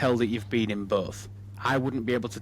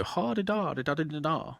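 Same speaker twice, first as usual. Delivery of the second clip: higher-pitched posh Westminster London gibberish; mock posh London accent; 5 semitones higher than usual. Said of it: "Parliament Westminstery type London accents".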